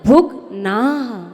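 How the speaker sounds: भुग्नाः ending in a breathy visarga ह. Shown as a demonstration. Teacher to students, stressing the visarga in भुग्नाः. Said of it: "ना पर विसर्ग".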